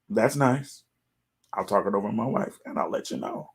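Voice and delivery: soft, fast, fading to a near-whisper; polite brush-off trailing off under the breath; quiet brush-off. Pretend. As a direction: mumble a polite dismissal. Brushing off the realtor.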